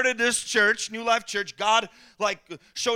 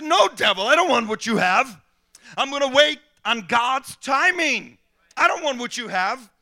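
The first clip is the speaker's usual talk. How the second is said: firm rebuke; 3 semitones higher, 6 dB louder than usual. Retold or imitated. Rebuking the devil.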